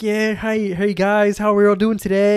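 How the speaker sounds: high, lively mimicry of meeting chatter; imitating chatty colleagues. Mimicking US colleagues greeting each other, high and chatty. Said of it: "they're all talking away like".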